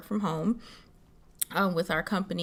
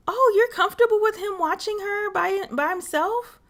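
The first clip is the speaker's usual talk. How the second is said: mock busybody; 12 semitones higher than usual. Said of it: "People would be like".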